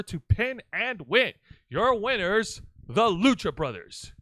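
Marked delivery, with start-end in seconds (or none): 1.7-4.1 ring announcer call. Pretend. Announcer-style winner call.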